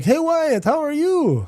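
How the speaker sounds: put-on very high, slow, drawn-out Dutch accent. Retelling a greeting when walking into the gym, imitating Anthony's Dutch accent. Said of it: "he's got that like accent".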